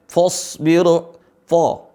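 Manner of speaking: "fasbir. Fa." said as "fosbir. Fo."; common mispronunciation. Shown as a demonstration. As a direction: thicken fa into fo in "fasbir". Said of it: "Seringkali dibaca".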